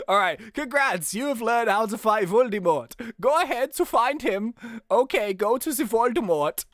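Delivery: game character with a hint of a German accent. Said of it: "Voldemort is the German Voldemort".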